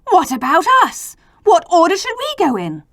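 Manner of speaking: the other letters complaining about their order; indignant letters. Acted. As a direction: demand your place, put out. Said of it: "The other letters were angry".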